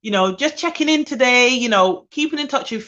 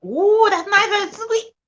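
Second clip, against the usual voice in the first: delighted exclamation; 12 semitones higher, slower than usual. Real, not acted. Sipping her tea, she cries out in delight.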